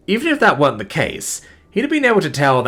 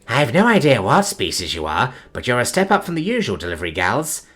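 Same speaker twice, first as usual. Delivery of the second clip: playful; 3 semitones higher than usual. Acted. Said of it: "something warmer, almost playful".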